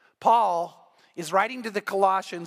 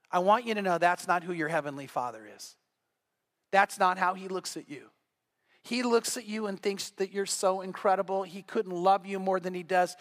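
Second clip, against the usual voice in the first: gentle, lowered preaching voice; tender reassurance; 3 semitones lower, 3 dB quieter than usual. Real, not acted. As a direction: reassure hurting listeners softly. Tenderly reassuring those who felt inadequate.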